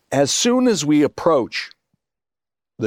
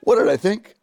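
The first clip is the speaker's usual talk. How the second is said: high, laughing, hammed-up incredulity; laughing mock disbelief; 11 semitones higher than usual. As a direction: pretend he can't believe the question. Retelling his fake enthusiasm to John.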